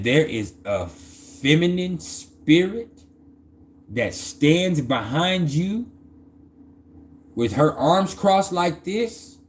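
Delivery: slow, drawn-out words, lightly acted seer; portentous retold message. Card reader tells her of a protecting spirit, slow and portentous. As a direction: deliver it slowly, stretching each phrase.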